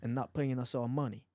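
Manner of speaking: quiet lightly done Boston accent; low gangster-film Boston accent. Shown as a demonstration. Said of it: "in a Boston accent".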